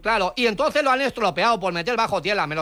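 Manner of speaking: put-on foreign accent with L for R; foreign-accented broken Spanish; mock foreign accent. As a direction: play a foreigner mangling Spanish, R turned to L. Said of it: "no se explica bien".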